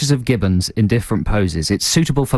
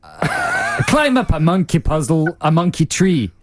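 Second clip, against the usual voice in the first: higher-pitched, halting scornful send-off; dragon's jeering put-down; mock dismissal; 4 semitones higher, slower than usual. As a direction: improvise a hammed-up rejection, pitch climbing.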